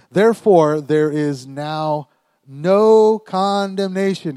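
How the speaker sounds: loud, drawn-out preacher's reading; emphatic scripture reading. Real, not acted. Preacher reading Romans to the congregation, emphatic. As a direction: proclaim the verse, stretching key words.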